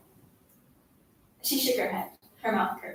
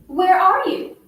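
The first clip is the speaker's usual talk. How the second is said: raised, higher calling voice; mild shout; 7 semitones higher, 5 dB louder, slower than usual. A narrator's reading. Girl mimics classmate shouting at home, mild raised shout. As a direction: call it out, rising at the end. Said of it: "You were shouting".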